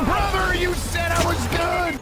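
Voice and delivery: high, drawn-out complaint; aggrieved wail. Real, not acted. Gamer blames teammate who said he was good, aggrieved wail. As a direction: wail the accusation high and slowly.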